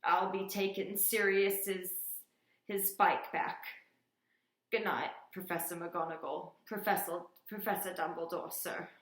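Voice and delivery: thick, muffled farewell. Acted. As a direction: talk through a handkerchief, muffled. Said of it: "in a very muffled voice".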